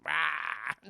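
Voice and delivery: short low "rah" noise; mock roar. Streamer acting out a film fight, mock roar. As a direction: imitate a roar in a low burst.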